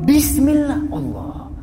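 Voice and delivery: high pretend battle cry; mock martial cry of Bismillah; karate shout. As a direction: strike with Bismillah, then drop to Allah. Preacher demos a karate strike.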